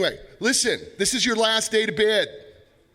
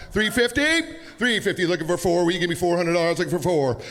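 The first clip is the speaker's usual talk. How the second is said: auctioneer; faster than usual. Acted. Replays his auction chant.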